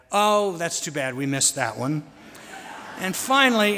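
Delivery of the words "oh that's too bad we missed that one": mock-regretful, falling away at the end; a touch of fake disappointment; feigned regret. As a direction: lightly pretend you're sorry. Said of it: "feigning regret".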